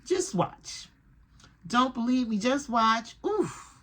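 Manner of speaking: a hint of high-pitched swagger; cocky George. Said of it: "He's just like".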